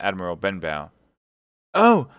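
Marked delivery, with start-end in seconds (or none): 1.7-2.1 high, loud cry of alarm; alarmed shout, pitched way up; boy's cry. A narrator's reading. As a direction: cry out suddenly like a startled lad. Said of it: "I cried".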